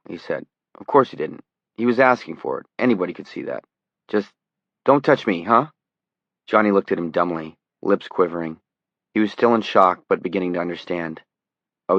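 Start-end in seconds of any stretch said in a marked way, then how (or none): 0.7-5.7 nervous. Acted. Frightened reporter backs away.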